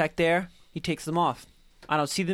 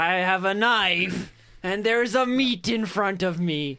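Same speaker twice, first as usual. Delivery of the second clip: slow menacing quote; much slower than usual. Retold or imitated. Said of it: "She was like".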